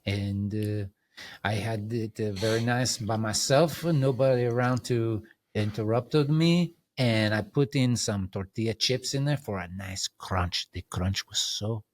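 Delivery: light mock Italian accent, slowing on the crunch; gentle Italian accent, lingering on fresh. Boasting about his lunch to the host, a light mock Italian accent. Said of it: "talk to me in an Italian accent".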